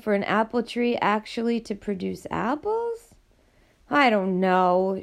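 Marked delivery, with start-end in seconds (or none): 3.9-5.0 slow, heavy admission; miserable. Acted. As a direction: let the words drag out in misery. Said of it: "she said miserably".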